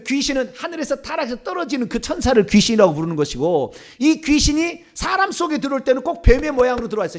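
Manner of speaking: ordinary talk, nothing marked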